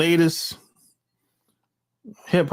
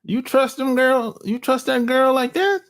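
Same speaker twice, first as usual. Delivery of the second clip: incredulous; 9 semitones higher than usual. Retold or imitated. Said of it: "I'm looking at them like".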